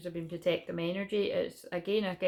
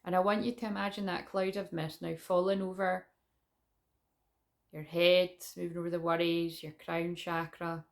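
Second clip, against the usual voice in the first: guided meditation. Acted. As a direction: lead the visualisation gently.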